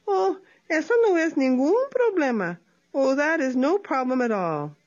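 high, faux-innocent voice; high faux-innocent opossum. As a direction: play innocent, light and high. Tlacuache voiced.

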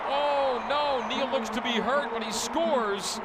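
high, shocked concern; worried surprise. Real, not acted. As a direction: gasp with worry mid-call. Announcer sees player hurt.

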